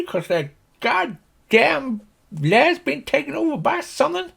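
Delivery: very high farmer's rant; exasperated, high-pitched country holler; indignant Slim Pickens. Acted. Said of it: "If you imagine Slim Pickens".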